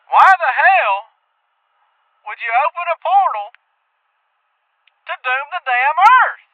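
angry prank caller. Acted. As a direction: chew out the radio host over the phone. Angry caller insults host.

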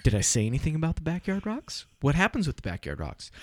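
half-amused rhetorical scolding; dad telling off his son; exasperated dad. Retold or imitated.

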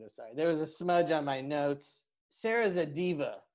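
lightly voiced insult comic; a hint of a smug roaster; roast comic Raz. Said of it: "insult roast comic, Raz Clifford".

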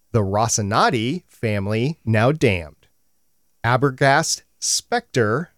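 limerick read slow, with pauses; bouncy limerick lilt. Pretend. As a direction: recite it slowly, name by name. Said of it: "you've got a limerick for us".

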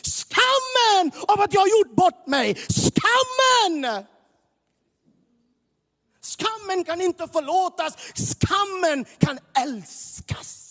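high, loud impassioned shouting; full-force preaching. Real, not acted. Preacher crying out about shame to the congregation, full force. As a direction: hammer the word skammen.

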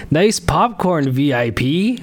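heckler's chirp. Pretend. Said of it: "The chirps".

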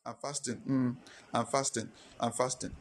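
softly murmured mock solemnity; mock solemn quiet. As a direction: play at being too solemn to talk. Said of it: "You're only acting very solemn. You are just quiet".

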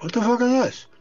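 high, loud baffled outburst. Retold or imitated. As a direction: blurt it out, stunned. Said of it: "I'm like".

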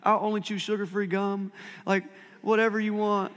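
hammed-up foxhole prayer; a lightly voiced desperate promise; mock desperate prayer. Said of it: "We're like".

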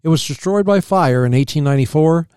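measured reading from a history book; read-aloud history. Real, not acted. Co-host reading about early settlers, read-aloud history. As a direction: read the facts out evenly.

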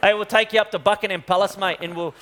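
joking Aussie bloke voice; lightly put-on Australian accent. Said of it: "an Australian accent".

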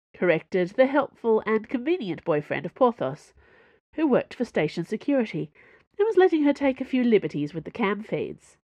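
plain reading voice

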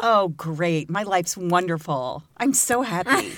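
mock-cheerful, drawn-out insistence; sarcastic. Answering co-host's how are you, sarcastic. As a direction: lay on the fake happiness. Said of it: "sarcastic tone in my voice".

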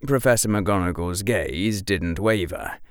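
ordinary delivery

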